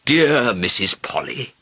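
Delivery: slow, affectionate royal cry; fond exclamation. A narrator's reading. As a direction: draw out the greeting fondly. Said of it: "he cried".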